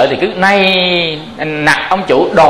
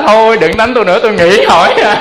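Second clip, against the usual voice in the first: hammed-up pleading; 6 semitones higher, faster than usual. Wife begging husband to stop.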